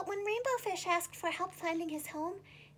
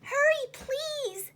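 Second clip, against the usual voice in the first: higher, louder, slow drawn-out plea; stretched pleading cry; urgent plea; 10 semitones higher, 6 dB louder, much slower than usual. Acted. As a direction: beg a friend to hurry. Friend begging.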